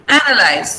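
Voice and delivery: "analyze" stressed on the opening A; "analyze" with a strong A, lighter "na-lyze"; stress on first syllable. Shown as a demonstration. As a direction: hit the A of "analyze". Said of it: "the stress is on a here".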